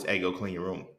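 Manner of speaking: even, unhurried ask to clean up; calm request. Retold or imitated. Parent calmly asks child to clean room, mild and even. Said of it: "when you tell me in a calm voice".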